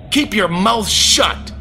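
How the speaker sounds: 1 menacing command. Retold or imitated. Satan threatens her.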